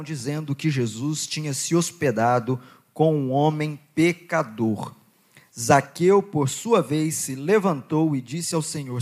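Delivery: measured, deliberate Bible reading voice; slightly slowed public reading of scripture. Acted. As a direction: read the passage to the congregation with weight. Continues reading Luke 19.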